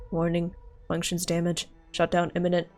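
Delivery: glitching robot losing power; fading malfunction warning voice; overheating robot. Acted.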